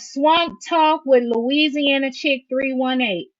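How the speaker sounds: big drawn-out announcer call; show announcement. Real, not acted. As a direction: call out the show name, stretched. Calls out the show's name.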